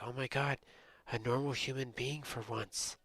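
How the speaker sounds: mildly amazed, lifted pitch; retold relief with a little lift; relieved amazement. Telling of a normal Canadian on video chat, relieved amazement.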